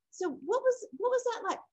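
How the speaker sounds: high-pitched, acted therapist question; gentle probing. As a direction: ask as a therapist gently inviting an answer.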